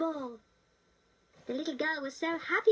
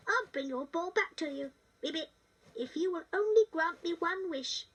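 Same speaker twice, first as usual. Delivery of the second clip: put-on frog like a little boy. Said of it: "talking like a little boy".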